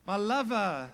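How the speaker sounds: high, loud, gushing buddy greeting that fades down; mock chummy gushing. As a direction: ham up a too-casual best-friend hello to God. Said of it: "he doesn't go like this".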